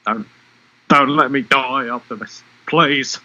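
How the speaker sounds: bad Australian accent, pleading; dying Australian Autobot. Podcaster performing a dying Autobot's quote, shaky attempt at Australian accent. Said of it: "try and do my best Australian accent, um, of a dying Autobot".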